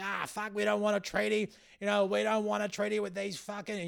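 high, mocking bigot voice; racist No voter. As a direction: send up an angry racist, pitched high. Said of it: "you're seeing their true colours".

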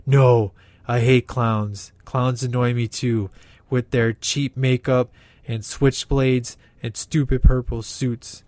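gruff hero complaining about clowns; lightly hammed-up Batman. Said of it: "the shouting, growling, and awkward pauses".

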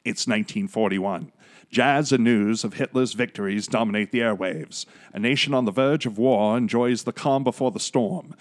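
lightly voiced old newsreel narrator; 1940s announcer voice. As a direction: read it like a wartime radio announcer. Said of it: "go back to my nineteen forties announcer voice".

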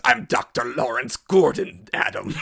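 mock Cary Elwes' shaky American accent, slow and loud; slow, loud parody of Cary Elwes' American accent; Cary Elwes Saw accent. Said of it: "his accent in Saw".

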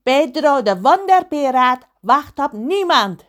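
loud, high, pompous pirate voice; hammed-up pirate boast; Pedro de Wonderpiraat. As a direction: proclaim it as an angry, vain pirate. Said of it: "riep hij steeds".

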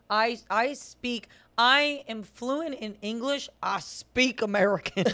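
a hammed-up pompous claim of fluency; mock proud. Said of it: "mocking own American English".

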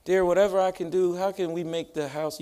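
hushed, lightly imitated sweet offer; imitating wife's compassionate talk. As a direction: gently imitate a doting wife. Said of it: "that's how she talks".

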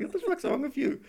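high, laughing mock jeer; laughing impression of a teasing girlfriend. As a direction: tease him like she did, with a laugh. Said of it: "she's, like, teasing me the whole time".

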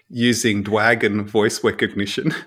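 R turned to W in "Dwagon" and "recognition"; imitated speech impediment, "Dwagon voice wecognition"; can't say R. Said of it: "they couldn't say the letter R".

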